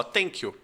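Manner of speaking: "Thank you" with th said as a plain T, like tank you; "Thank you" with a hard T instead of th. Shown as a demonstration. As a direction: say "Thank you" as tanky-oo, no th sound. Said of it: "você pode fazer o som de T e de D".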